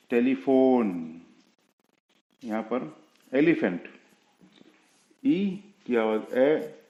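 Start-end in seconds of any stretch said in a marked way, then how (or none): 0.1-0.9 टेलीफोन with a long drawn-out "o"; stretched vowel. Shown as a demonstration. Teacher showing the silent e's effect, टेलीफोन with long o. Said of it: "थोड़ी लंबी खींचनी पड़ती है".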